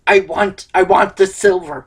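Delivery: lightly voiced pirate; a hint of pirate talk. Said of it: "you're talking like a pirate".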